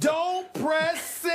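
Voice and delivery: high, slow mock-grand slogan; playful drawn-out catchphrase; catchphrase delivery. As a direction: draw out each word high like a famous warning. Continues the coach's famous catchphrases.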